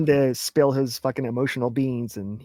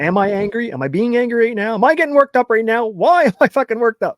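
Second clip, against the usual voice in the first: louder, much higher as anger builds; getting worked up; 9 semitones higher, 9 dB louder than usual. Acted. Cohost acting out rising anger, building to a shout. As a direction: climb into a yell of self-questioning.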